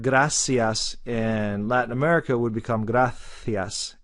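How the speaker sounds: gracias said grathias with a th sound; Castilian th in gracias; Spanish accent. Shown as a demonstration. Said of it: "It's a T H sound".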